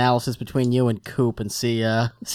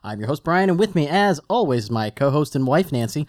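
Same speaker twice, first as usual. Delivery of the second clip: podcast show-opening announcer read. Acted. Host welcoming listeners to Tosche Station Radio, announcer read. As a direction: deliver a practised radio-host intro.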